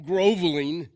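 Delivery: laughing through the word. Real, not acted. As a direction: chuckle as you say it.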